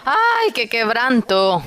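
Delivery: slow, high lament; anguished cry. Acted. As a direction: let the grief break out, drawn out. Preacher laments brother's brokenness.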